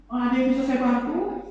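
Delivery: mock-formal offer of help, as to a client; a hint of polite business voice; business-partner formality. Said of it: "Gila, rekan bisnis mah".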